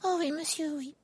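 very high, eager elf squeak; eager exclamation. A narrator's reading. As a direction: chirp it eagerly as Dobby. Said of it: "s'exclama Dobby".

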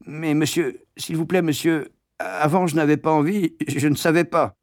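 lightly voiced begging pupil; pleading boy. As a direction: beg the master.

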